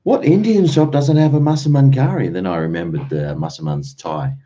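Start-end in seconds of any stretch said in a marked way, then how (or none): 0.0-2.3 higher, louder disbelief, hammed up; incredulous thought. Recalling the Indian shop, mock incredulous outrage. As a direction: scoff at the idea in mock outrage. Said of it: "I was thinking".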